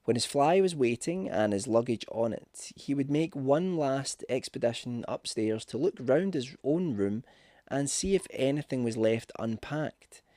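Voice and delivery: plain reading voice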